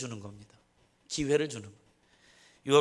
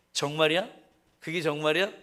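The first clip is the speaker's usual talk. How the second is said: a touch of suspicious pressing, louder; half-acted disbelief, pushing for proof; mild mock interrogation of a disciple; doubtful grilling; 3 dB louder than usual. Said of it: "이렇게 따져 묻는 줄 알았어요".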